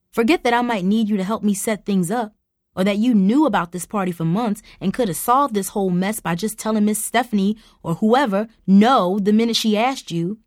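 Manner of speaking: fuming. Acted. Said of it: "Mom fumed".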